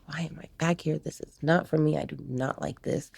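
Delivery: understated, hushed retold protest; retold dejected thought. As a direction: say it softly, as if to yourself. Retold crying in cop car.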